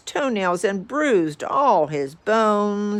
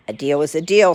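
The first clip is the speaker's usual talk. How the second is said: snapping; 5 dB louder, much faster than usual. Acted. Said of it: "snapped the bug".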